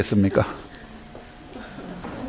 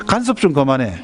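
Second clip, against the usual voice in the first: higher, mock-annoyed snapping back; irritated brush-off; 4 semitones higher than usual. Wife brushes off her nagging husband, mock-irritated. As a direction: shoo off a nagging husband, half-joking.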